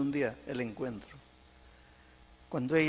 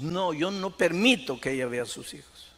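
firm retold protest, pitch raised; retold angry refusal; 4 semitones higher, 5 dB louder than usual. Husband refusing to let her see the children, mildly acted anger. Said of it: "se puso bravo".

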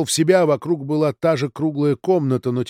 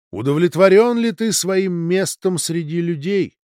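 higher, louder ringing voice; crystal voice; 6 semitones higher, 5 dB louder than usual. Acted. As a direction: ring out like crystal overhead. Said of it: "хрустальный голос".

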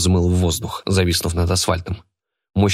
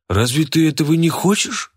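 mocking taunt; 9 semitones higher than usual. A narrator's reading. Fat man taunts boy.

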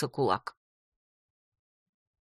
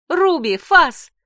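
shrill high shout, slow; shrieked command; 10 semitones higher, 8 dB louder, much slower than usual. A narrator's reading. Heroine shrieks at her demon dog to attack, high loud shout. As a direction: scream the attack order. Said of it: "взвизгнула я".

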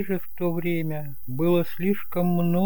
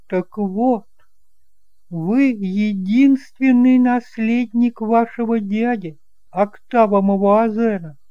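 higher, louder aunt, eager and fussing; aunt, higher and louder, announcing the inheritance; aunt Eloi, astonished; 8 semitones higher, 6 dB louder than usual. Acted. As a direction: usher him in, then break the big news.

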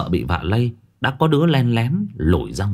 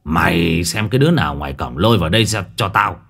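shouted orders; 4 semitones lower than usual. Acted. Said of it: "nghe tiếng chủ quát".

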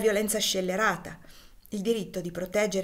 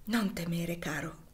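soft whispered comfort; calm him in a hush; soothing; 4 dB quieter than usual. Acted. Wife comforts frightened husband. (la moglie consola il marito, sussurro dolce)

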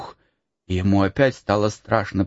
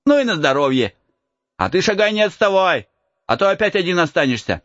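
put-on light higher boyish voice; cheeky peasant boy; 9 semitones higher, faster than usual. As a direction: tease the lost boy. Boy character voice.

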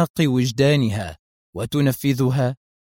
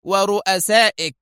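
higher, pointed, loaded word; meaningful; 7 semitones higher than usual. Acted. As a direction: let the hidden threat land. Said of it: "بلهجة ذات مغزى".

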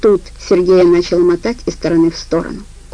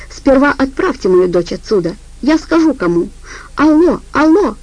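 angry shouting; 5 semitones higher than usual. Acted. Лида кричит в трубку боссу.

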